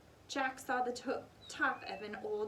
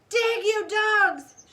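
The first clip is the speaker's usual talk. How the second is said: loud, slow, higher bellow; angry shout; 10 semitones higher, 14 dB louder, much slower than usual. A narrator's reading. Captain orders his men, slow loud bellow. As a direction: drag the order out, furious. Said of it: "cried Captain Bones".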